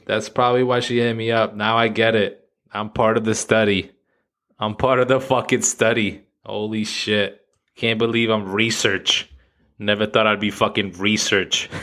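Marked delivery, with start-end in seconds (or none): none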